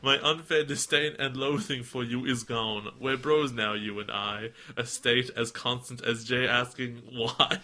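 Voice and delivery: lightly put-on Texan accent; Southern accent. Podcaster reads fan's poem, light Southern accent. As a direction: read verse with a hint of Southern twang. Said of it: "How does Southern go?".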